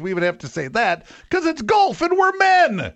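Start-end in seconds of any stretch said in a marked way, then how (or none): 1.3-2.9 much higher, slow ironic stretch on golf and men; mock the tough-guy pride; mock macho. Real, not acted. Golfer mocks the touchy men, slow ironic emphasis.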